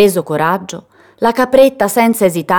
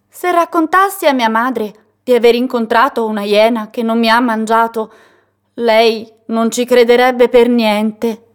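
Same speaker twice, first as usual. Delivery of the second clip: higher, small, careful little-goat voice; little pleading voice; 5 semitones higher than usual. Acted. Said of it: "con una vocina".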